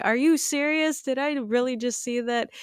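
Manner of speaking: pitched high in shock, can't believe it; stunned disbelief. Retold or imitated. Retelling her own reaction to a friend, incredulous. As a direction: gasp it out like you just saw something gross. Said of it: "I'm like".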